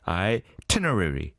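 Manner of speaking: said quickly. Shown as a demonstration. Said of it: "빨리 하면". (itinerary를 조금 빨리 발음)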